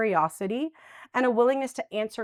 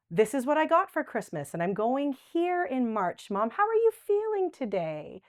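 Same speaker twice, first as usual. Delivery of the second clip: gentle cheerful chat; 3 semitones higher than usual. Shown as a demonstration. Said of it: "tell her something".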